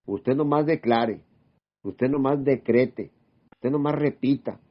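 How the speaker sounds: slow, drawn-out mock pastor's command; mocking a preacher. Preacher parodied for a church crowd, slow mock command. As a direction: parody the pastor telling the flock what to do. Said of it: "¿Qué le dice el pastor?".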